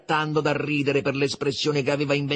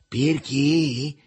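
raised, mildly stern question; sharp, higher-pitched challenge; 4 semitones higher, 4 dB louder than usual. A narrator's reading. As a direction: echo it back severely. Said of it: "fece severo il Riccetto".

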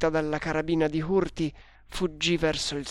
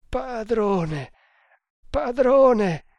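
high, wailing cry, building louder; deep terror; 8 semitones higher, 7 dB louder, much slower than usual. A narrator's reading. Indian terrified at his companion's name, deep terror. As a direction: cry out to your master in dread. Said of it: "balbettò con profondo terrore".

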